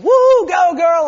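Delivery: loud drawn-out cheer; yelling. Retold or imitated. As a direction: holler it across the slope, stretched out. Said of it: "so they started yelling at her".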